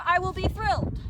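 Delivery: excited. Real, not acted. Hoping this take succeeds.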